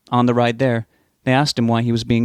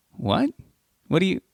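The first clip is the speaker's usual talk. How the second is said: shocked; 8 semitones higher, 3 dB quieter than usual. A narrator's reading. Shocked by the revelation.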